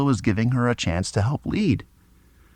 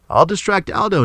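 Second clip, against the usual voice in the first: yelled; 8 semitones higher than usual. A narrator's reading. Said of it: "Nick yelled".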